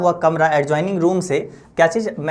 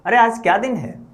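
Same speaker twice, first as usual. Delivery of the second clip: raised voice; 5 semitones higher than usual. Retold or imitated. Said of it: "बहुत ही जोर से बोल रहे थे".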